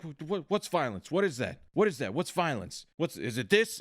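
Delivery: mock agitation, rapid repeated questions; a touch of irate disbelief; Ed Harris. Imitating an actor at a press briefing, mildly angry. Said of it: "They thought he was really angry".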